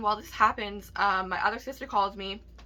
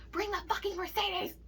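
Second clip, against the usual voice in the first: retold yell; 11 semitones higher, 4 dB quieter than usual. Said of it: "he yelled at her".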